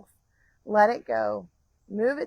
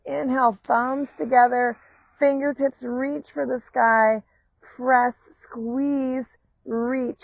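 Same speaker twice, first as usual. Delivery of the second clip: loud cues; 4 semitones higher, 6 dB louder, slower than usual. Acted. Calls out movement cues loudly.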